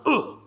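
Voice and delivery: short mock-manly grunt; macho grunt. Preacher mimics men who don't cry, macho grunt. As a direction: grunt like a tough guy.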